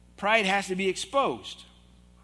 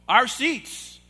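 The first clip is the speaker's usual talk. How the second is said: louder and higher, flat final; mild mock firmness; 6 semitones higher, 8 dB louder than usual. Pastor imitating the old man insisting on his seats, louder. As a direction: clip it like an old man who won't budge. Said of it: "he didn't yell".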